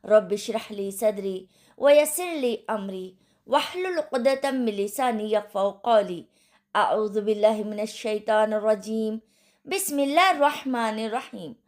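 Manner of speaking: measured Arabic recitation of opening duas; recited invocation. Acted. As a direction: recite the opening prayers steadily and reverently. Opening Arabic invocations before lesson.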